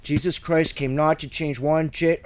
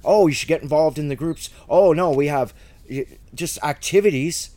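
mock church greeter; 5 dB louder than usual. Mocking church staff replies.

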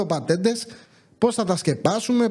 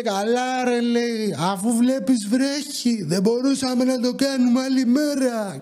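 mocking the driver; 4 semitones higher, slower than usual. Mocking the truck driver's complaint.

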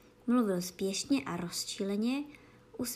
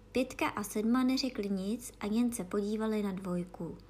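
usual speaking voice

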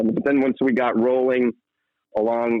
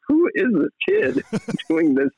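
puzzled scoff; 4 semitones higher than usual. Retold or imitated. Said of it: "They'd be like".

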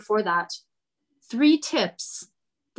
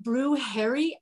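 robot voice; 2 semitones higher, slower than usual. Retold or imitated. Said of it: "the automatic voice spelled it out".

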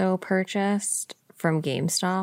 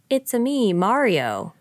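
a light, hammed-up Mario Italian accent; mock Italian accent; 4 semitones higher than usual. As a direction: toss off the Mario catchphrase in a mild fake Italian accent. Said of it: "fake accent in the movie".

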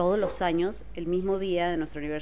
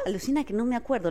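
laughing; 3 semitones higher than usual. Real, not acted. Embarrassed laugh.

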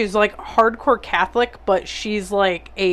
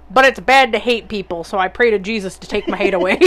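lightly voiced pious granny; imitating grandmother; faster than usual. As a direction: play the grandma justifying herself. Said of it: "And then she'll be like".

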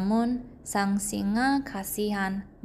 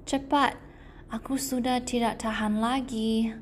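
"Cepat" tinggi dan mendesak; mendesak kesakitan; 3 semitones higher than usual. Acted. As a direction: memohon cepat karena sakit. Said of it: "kata singa". (singa terjebak mendesak tikus, tinggi)

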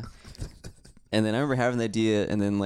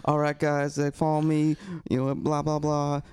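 mock closing plug; 6 semitones higher than usual. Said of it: "They always say".

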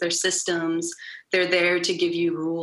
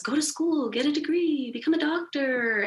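mock authority voice; 8 semitones higher than usual. Voicing the world's demands.

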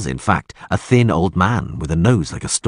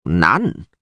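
put-on a touch of pride in an old man's voice; mildly proud old man. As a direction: answer with modest dignity. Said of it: "he answered proudly".

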